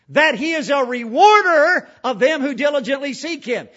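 scripture boomed out loud, rising to rewarder; loud preached verse; thundered scripture. Acted. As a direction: proclaim it like a trumpet call.

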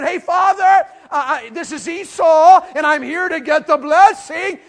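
high, loud put-on voice, slowing on Esau; sly son shouting his fake name; Jacob faking Esau. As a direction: pretend to be your brother, hammed up. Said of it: "and he goes in".

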